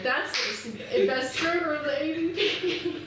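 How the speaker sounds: loud, high, stretched-out mock announcement; excited quote. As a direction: imitate it loudly, slowly, way up high. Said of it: "And you're like".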